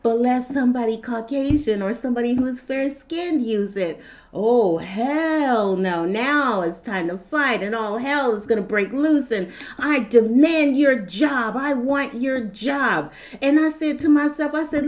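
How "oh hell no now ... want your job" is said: slow, drawn-out indignant imitation; hammed-up outraged complainer; mock outrage. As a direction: draw out each demand in mock indignation.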